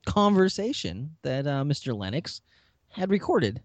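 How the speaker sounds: a hint of a hammed-up President Palmer, stretching key words; Mark as Palmer. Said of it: "This is if Mark played President Palmer".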